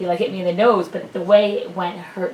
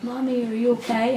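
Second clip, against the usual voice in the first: a hint of a small child, pitched up; lightly imitated little son; 5 semitones higher than usual. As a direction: lightly voice a child checking on mommy. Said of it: "and then he came up".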